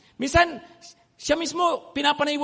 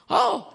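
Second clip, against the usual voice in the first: high little dog bark; tahol ng chihuahua; 9 semitones higher than usual. Retold or imitated. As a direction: imitate a chihuahua's yap. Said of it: "kakahulan niya". (ginagayang tahol ng chihuahua)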